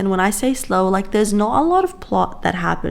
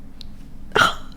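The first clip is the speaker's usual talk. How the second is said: soft breathy sigh; swooning sigh; 6 dB quieter than usual. Real, not acted. Reader overcome by a tender romance, soft swooning sigh. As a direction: sigh out softly, without voice.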